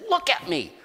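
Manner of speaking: high, loud proclamation of healing; ecstatic shout. Retold or imitated. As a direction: grab each person and proclaim it. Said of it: "and saying".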